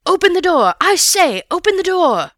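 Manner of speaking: high-pitched furious shouting; loud, angry shout. A narrator's reading. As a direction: shout it angrily, demanding entry. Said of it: "it was shouting".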